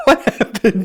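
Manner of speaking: asking through laughter; laughing while asking. Real, not acted. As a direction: giggle the question out.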